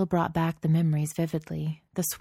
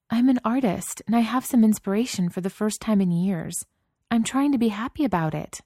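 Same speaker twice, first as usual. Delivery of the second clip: impassioned pleading; 6 semitones higher, 4 dB louder than usual. A narrator's reading. Wife pleading angrily with husband.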